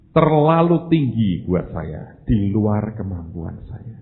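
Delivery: drawn-out refusal, falling away at the end; slow reluctant refusal. Acted. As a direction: stretch the words out as you decline the price. Acts out declining the price. (menolak dengan lambat dan berat hati)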